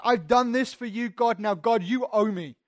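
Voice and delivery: a hint of a proud Pharisee telling God he's owed; smug Pharisee. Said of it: "It's like".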